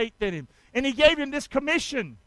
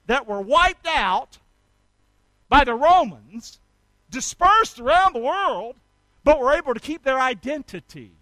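emphatic preaching; 2 semitones higher, 6 dB louder than usual. Real, not acted. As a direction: hammer each phrase, pausing between. Preacher stresses Israel's dispersal.

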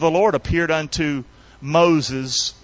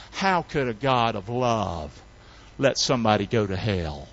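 voiced objection; 5 semitones lower, 4 dB quieter than usual.

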